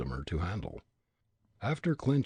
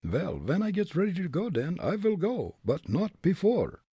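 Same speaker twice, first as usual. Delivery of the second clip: put-on higher, firm Dutch-accented voice; Dutch accent retort; 9 semitones higher than usual. Fritz refusing the bully, defiant Dutch accent. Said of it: "Fritz retorted".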